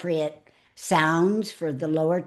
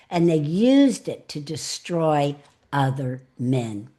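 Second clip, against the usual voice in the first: storytelling with pauses. Shown as a demonstration. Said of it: "demonstrate what I mean by the pause".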